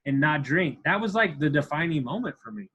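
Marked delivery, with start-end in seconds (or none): 0.1-0.8 bursting with it, much higher and louder at first; a giddy shout of pride that eases off; excited self-praise. Retold or imitated. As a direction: cheer yourself on like you can't believe it. Quoting his own thrill on plane.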